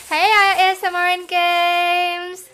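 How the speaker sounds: loud, slow announcer greeting; channel intro. Real, not acted. Greeting viewers with a loud slow channel intro. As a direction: announce the channel name big.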